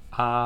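"啊" as a wide-open ah. Shown as a demonstration. Teacher demonstrates short O to student, open ah. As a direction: open the mouth fully for "啊". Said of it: "O就嘴巴张开就好了".

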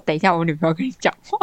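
rattled off fast like a routine line; quick rote phrase. Retold or imitated. Sister mimicking her brother's hurried phone handoff, fast. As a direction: toss it off quickly, same every call. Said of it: "然后就，都会说".

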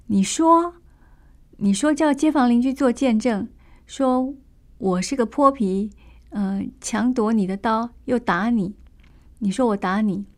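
a street thug yelling him down; bully's shout. Acted. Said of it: "牛二就喝道".

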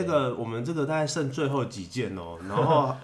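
hard sell ad. Retold or imitated. Mock salesperson closing a sale.

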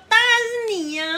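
high, loud doting answer; sweet high reply. Retold or imitated. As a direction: gush it to your little one. Mother answers child sweetly.

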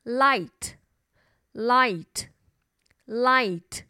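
light, light, light said very slowly; 慢慢重复 light; slow word drill. Shown as a demonstration. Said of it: "灯的英文叫做".

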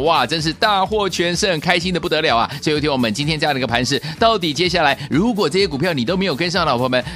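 excited sales-pitch hype; infomercial. Acted. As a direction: sell it like an infomercial. Host hypes stock wins.

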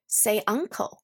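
careful model reading; example read slowly. Shown as a demonstration. Teacher reading the flashcard example slowly. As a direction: read the example clearly for learners. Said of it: "字卡的例句".

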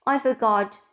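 put-on a light whimper from a scolded boy. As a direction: plead it like a caught child. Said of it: "whimpered Davy".

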